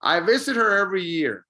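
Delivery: "visit her" run together, H of "her" nearly silent; linked, H dropped. Shown as a demonstration. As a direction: model it for repeating, "her" as "er". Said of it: "almost don't really hear the H".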